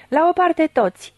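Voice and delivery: high-pitched commanding call; roared warning. A narrator's reading. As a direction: order everyone to clear away. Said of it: "răcni el".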